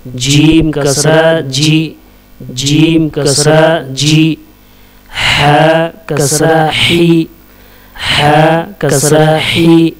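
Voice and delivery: measured, level-pitched chant of letter names; spelling drill recitation. Shown as a demonstration. Teacher drilling Arabic letters with kasra for learners, measured recitation. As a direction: recite letter, vowel sign, syllable in even beats.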